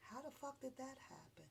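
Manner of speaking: hushed, unvoiced disbelief; suspicious whisper; whispered question. Real, not acted. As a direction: lean in and whisper it. Questioning R. Kelly charge.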